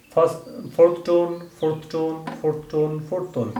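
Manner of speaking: "fourth tone" repeated with a sharp falling pitch; tone drill. Shown as a demonstration. Teacher drilling students on the falling fourth tone.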